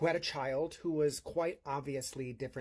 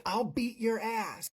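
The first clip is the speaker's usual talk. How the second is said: higher, slow mock threat; threatening man; 7 semitones higher than usual. Imitating the ejected man threatening her, blustering. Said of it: "And he said".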